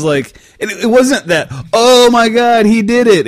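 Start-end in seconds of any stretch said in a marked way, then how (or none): 1.7-3.3 higher, louder mock shock; imitating classmates' shocked cry; mock shocked gasp. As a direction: act out the kids gasping in shock. Kids reacting at lunch table.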